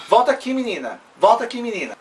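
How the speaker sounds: high call after someone leaving; calling her back. Retold or imitated. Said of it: "ela falou assim". (chamando de volta, voz alta e aguda)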